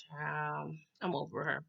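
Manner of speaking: dropped low and soft, over it; fed-up aside. Real, not acted. Vlogger telling viewers she is done with Browning, low and soft. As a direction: sigh it out, done with her. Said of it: "aside to viewers".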